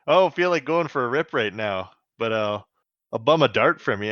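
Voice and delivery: lightly voiced Canadian guy; hint of a Canadian accent. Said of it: "my Canadian voice guy".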